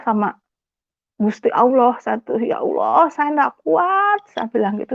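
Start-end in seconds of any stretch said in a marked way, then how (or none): 2.4-4.2 high, drawn-out plea to God; pleading lament. Retold or imitated. Wife begging God at her limit, pleading lament. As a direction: stretch it out like a helpless wail. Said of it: "saya hanya bisa menangis".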